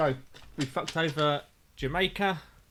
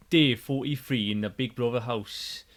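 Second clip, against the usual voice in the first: mock Geordie narrator; 4 semitones lower than usual. Host teasing guest Johnny, mock Geordie narrator. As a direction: do the Big Brother narrator in a Geordie accent. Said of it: "Oh, he's done it anyway".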